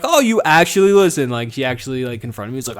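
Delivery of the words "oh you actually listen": high, loud mock amazement; teasing wife with feigned surprise. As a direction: act startled she listens after all. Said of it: "I'd be like".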